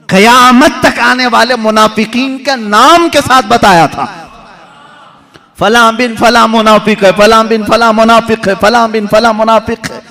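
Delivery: preaching at full force. Acted. Preacher listing the hypocrites to the congregation, loud and high.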